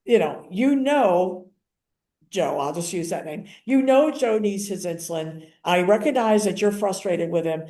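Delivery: even, measured reassurance; calm professional correction. Retold or imitated. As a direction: settle her down firmly but kindly. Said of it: "but I said it in a calm way".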